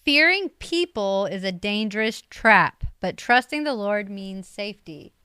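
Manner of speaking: reading scripture. Shown as a demonstration. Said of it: "Read it".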